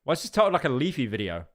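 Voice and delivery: ordinary talk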